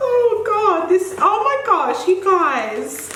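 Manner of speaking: high, laughing exclamation. Real, not acted. Thanking the team for the gift, laughing. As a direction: giggle through it, overwhelmed.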